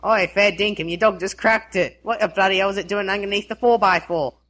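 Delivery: Aussie read-out; lightly played Australian slang delivery; Australian accent. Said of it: "phrases that people want said with an Australian accent".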